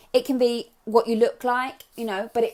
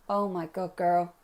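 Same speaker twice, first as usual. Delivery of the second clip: put-on sassy American girlfriend accent; teasing American-accented scolding; 3 semitones lower, slower than usual. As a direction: slip into a playful American accent. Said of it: "I always go to an American accent".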